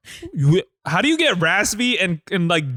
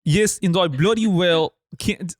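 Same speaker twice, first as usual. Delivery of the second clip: put-on slow, effortful Cockney accent; Cockney raccoon. Reading the comic as Rocket, struggling Cockney. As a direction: attempt a Cockney read, drawing it out. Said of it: "As Rocket Cockney Raccoon".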